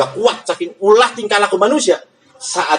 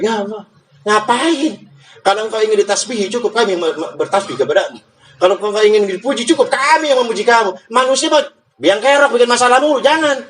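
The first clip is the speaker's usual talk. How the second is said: high, pleading complaint to God; lightly voiced angels begging Allah not to; protesting angels; 6 semitones higher than usual. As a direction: whine the objection like fussy angels. Angels protest creating humans.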